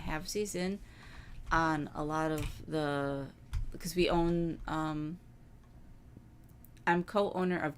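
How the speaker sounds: talking through hiccups; words broken by small hiccups; hiccuping while eating. Real, not acted. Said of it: "sorry, I keep hiccuping".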